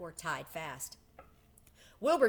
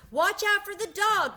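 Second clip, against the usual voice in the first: very high, loud bleating cry; sheep crying out; 12 semitones higher, 8 dB louder than usual. A narrator's reading. Sheep shouting advice to Wilbur, high loud cry. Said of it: "cried the sheep".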